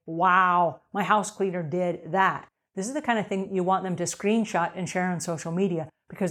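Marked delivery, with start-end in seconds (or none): 0.1-2.5 mock-amazed homeowner praising the cleaner; impressed wow. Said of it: "they're gonna say".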